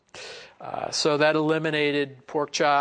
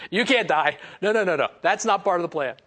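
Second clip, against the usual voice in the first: mock protest; 3 semitones higher than usual. Peter protesting to the Lord.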